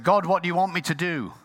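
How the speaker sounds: pleading call. Retold or imitated. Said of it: "And so he said".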